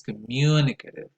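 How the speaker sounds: communicative with MU stressed; stress on second syllable. Shown as a demonstration. Introducing the first adjective, communicative stressed on MU. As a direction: lean on MU in communicative. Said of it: "Stress goes on the second syllable".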